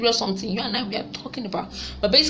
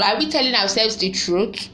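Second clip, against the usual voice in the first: normal talking voice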